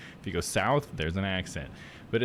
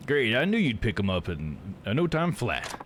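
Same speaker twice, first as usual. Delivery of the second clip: lightly southern game character; a touch of southern accent. Acted. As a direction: read it with a Texas twang. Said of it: "I've been giving such a southern accent".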